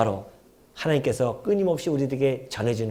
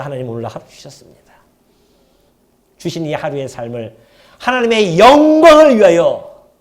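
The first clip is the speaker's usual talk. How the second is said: fervent prayer; 10 dB louder than usual. Retold or imitated. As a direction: pray it out boldly, louder at the end. Morning prayer voiced in sermon. (하나님께 외치는 뜨거운 기도)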